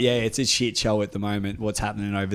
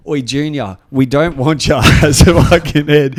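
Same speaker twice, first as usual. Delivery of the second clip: loud, raised-pitch imitation of a tirade; mock belligerent yelling; retold angry heckle; 3 semitones higher, 13 dB louder than usual. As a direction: cut in and shout him down. Retold interruption, attacking a rival.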